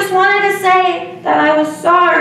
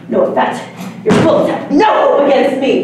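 fast, gloating villain taunt; dark lord; 2 semitones lower, faster than usual. Pretend. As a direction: brush off the attack with scorn. Kid playing alien overlord.

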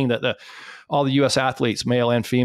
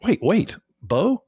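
high, fast, thrilled burst; excited recognition; 7 semitones higher than usual. Retold or imitated. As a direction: suddenly realise the guest of honour is here. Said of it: "he's like".

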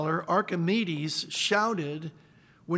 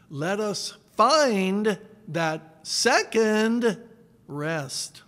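hymn recitation. Shown as a demonstration. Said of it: "he wrote this".

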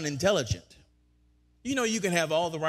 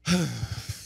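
demo sigh; 4 semitones lower than usual. Shown as a demonstration. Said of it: "he breathes".

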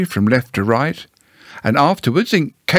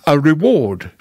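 measured owl, not raised; deliberate restatement; 3 semitones higher than usual. Acted. Owl repeats his advice to Pooh, deliberately. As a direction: restate it carefully at an ordinary pitch.

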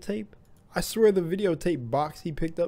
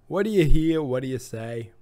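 put-on louder second go at the Vertigo Gaming intro accent; retry of the intro accent; 6 dB louder than usual. Redoing the Vertigo Gaming intro with a better accent. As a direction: fix the accent and shout the channel intro. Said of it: "I didn't do the accent good enough".

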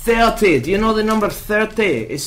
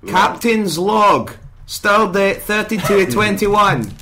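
Star Trek captain. Acted. Star Trek log parody.

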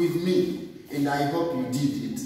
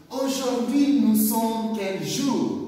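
"Aujourd'hui" pitched much higher, then a rising question; high question tune; 6 semitones higher than usual. Shown as a demonstration. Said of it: "Répétez avec moi". ("Aujourd'hui" beaucoup plus aigu, ton de question)

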